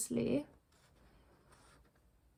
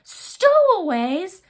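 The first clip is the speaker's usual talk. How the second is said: slow, much higher, louder furious roar; captain exploding a second time, louder; 8 semitones higher, 7 dB louder, much slower than usual. Acted. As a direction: let the fury climb. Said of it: "he roared".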